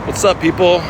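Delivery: high call out to strangers across the street; friendly high holler at the bus; yelling to a bus. Real, not acted. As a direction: shout it out to the passing bus. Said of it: "when I yell at those buses".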